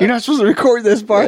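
high, giggly through the laughter; laughing friend's warning. Real, not acted. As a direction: talk through real laughter. Still laughing after joke.

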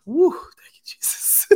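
high whooshed whisper of thanks; whispered relief. Retold or imitated. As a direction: retell a secret sigh of relief in a whisper. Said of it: "I was like".

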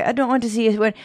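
put-on careful, amateur Irish accent; retry the line in lighter Irish; second Irish attempt. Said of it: "How do you say green in Irish?".

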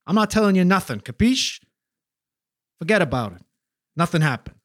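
hammed-up Jersey wiseguy accent; mock mobster accent from New Jersey. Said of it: "representing the wonderful diversity of New Jersey accents".

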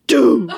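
one booming vocal thud; imitated bass drum. Explaining the mystery noise to listeners, bass drum imitation. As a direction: sound out a single drum hit. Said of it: "just the bass drum".

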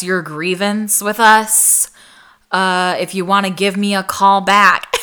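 mock her flat, can't-be-bothered voicemail; dismissive tone. Retelling the nurse supervisor's voicemail, mock dismissive tone. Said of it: "like, in this tone".

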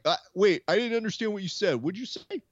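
lightly voiced Dana, feigning confusion; a hint of Dana playing dumb; Dana pretending not to hear. Mocking Dana dodging a reporter's question, mildly mock-confused. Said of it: "he is definitely gonna play that card of like".

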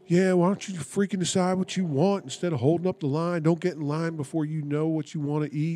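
half-voiced retold rant; mock yelling. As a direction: mimic someone griping from the car behind. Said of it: "that's what he's yelling".

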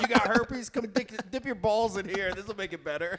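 loud, high joking snake-oil healer; hammed-up quack doctor pitch; mock healer. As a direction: hawk the cure like a quack. Mock healer offering a cure.

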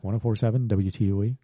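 smooth radio announcer read. Shown as a demonstration. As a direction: read the call letters like a DJ. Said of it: "See, I got my radio voice back".

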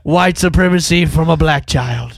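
slow rant through laughter; laughing mock rant. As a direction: preach it while cracking up.

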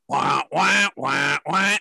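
repeated voiced "wah" siren effect; imitated countdown siren. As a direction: mimic a pulsing alarm with the voice. Imitates countdown clock entrance sound.

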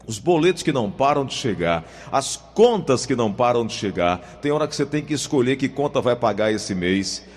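upbeat radio commercial read. Acted. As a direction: sell it like a radio spot. Host reads sponsor advertisement.

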